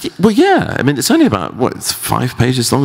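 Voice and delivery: hammed-up bad Kiwi accent, high; a weak high New Zealand accent impression; Peter Jackson Kiwi accent. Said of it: "I will attempt a bad Kiwi accent".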